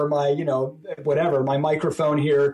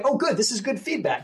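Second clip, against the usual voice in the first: bright high "oh good", upbeat and eager; light, pleased voice, like bad news is a gift; cheerful welcome; 5 semitones higher than usual. Young founder hearing complaints, answering with eager cheer. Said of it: "They'll say".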